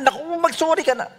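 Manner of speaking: high-pitched, hurried mock nagging; hammed-up impatient push to apologize; quick, squeaky-high exasperation; exasperated urging. Retold urging to apologize at once.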